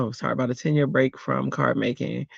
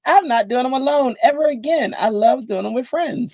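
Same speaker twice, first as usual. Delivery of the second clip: mock resolve; 10 semitones higher than usual. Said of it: "And I was like".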